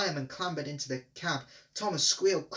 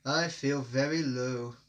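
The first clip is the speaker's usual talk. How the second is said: pathetic; slower than usual. A narrator's reading. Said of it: "Gordon went on pathetically".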